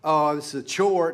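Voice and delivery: a loud put-upon groan of a chore; mock grumbling. Mocking the grudging attitude to a congregation, loud and put-upon. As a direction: whine it like a bored chore. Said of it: "Instead of a".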